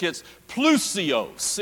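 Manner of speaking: "plusios" said slowly, syllable by syllable; Greek word. Shown as a demonstration. Preacher giving the Greek word for richly, said slowly. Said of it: "In the Greek".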